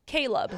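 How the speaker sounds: Caleb said slowly as KAY-lub; corrected pronunciation. Shown as a demonstration. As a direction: set Caleb apart, saying it carefully as KAY-lub. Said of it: "By the way, you mispronounced my name".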